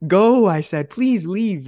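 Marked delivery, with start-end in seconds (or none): 0.1-0.5 high, loud one-word shout; mock angry shout. Employee telling his boss to go, shouting. 0.9-1.7 mock snap. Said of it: "That's what I literally said to him".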